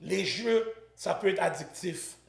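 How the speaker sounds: punchy call to action, dropping for the disclaimer, then rousing finish; sponsor ad read. Acted. Host urging viewers to sign up live, ad-read style. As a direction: urge listeners on, then caution them.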